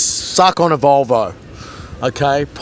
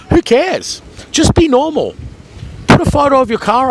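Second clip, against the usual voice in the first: exasperated outburst; 11 semitones higher than usual. Real, not acted. Scolding his YouTube hater.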